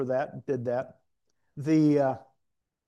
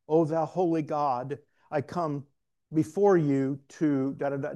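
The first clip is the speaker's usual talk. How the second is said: mock formal prayer. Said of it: "prayer is not this".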